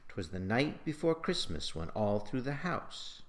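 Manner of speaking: verse lilt, two light beats then a strong one on "night"; rollicking rhythm. Shown as a demonstration. Teacher reads a practice line, rollicking stress on "night", "Christmas", "all", "house". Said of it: "Notice the stress on every third syllable".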